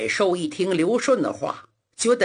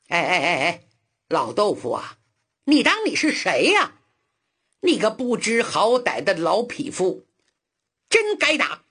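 vicious. Acted. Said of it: "恶狠狠地说".

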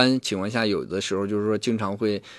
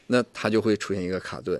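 normal talking voice

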